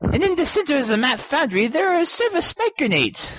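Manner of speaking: lightly voiced hillbilly accent. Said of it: "back to the hillbilly".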